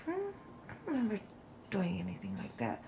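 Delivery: very soft thinking aloud; puzzled musing. Retold or imitated. Daughter wondering whether she hacked the dress, quietly puzzled. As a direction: ponder it quietly to yourself.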